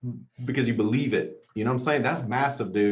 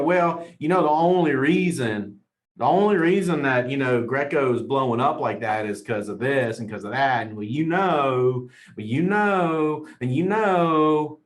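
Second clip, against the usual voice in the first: whiny loser talk. Retold or imitated. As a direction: ham up a grumbling excuse-maker who stalls on "you know". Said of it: "Non-winners go".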